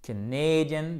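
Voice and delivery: "Canadian" slow, long "nay" in the middle; stressed diphthong. Shown as a demonstration. Teacher modelling for students, "Canadian" with long stressed "nay". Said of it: "vous prononcez A".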